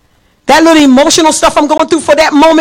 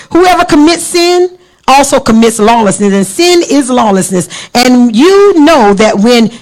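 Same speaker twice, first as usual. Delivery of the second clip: firm, declaimed Bible verses; emphatic scripture reading. Real, not acted. Preacher reads First John's warning on sin to the church, emphatic proclamation. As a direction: proclaim each verse with weight.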